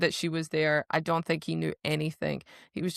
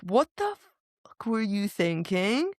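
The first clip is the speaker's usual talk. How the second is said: incredulous telling-off, rising at the end; half-acted anger, high on the first words; mock outrage; 3 semitones higher than usual. Guardian confronting runaway queen, mock-outraged question. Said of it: "he's pissed, royally".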